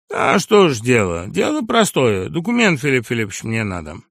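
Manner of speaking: a brash lout talking back; crude upstart voice. Acted. Sharikov demands documents.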